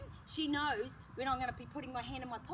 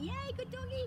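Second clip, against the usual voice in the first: high squeaky dog praise; high-pitched praise; 11 semitones higher than usual. Shown as a demonstration. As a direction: show the overexcited puppy voice. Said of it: "in a high-pitched voice".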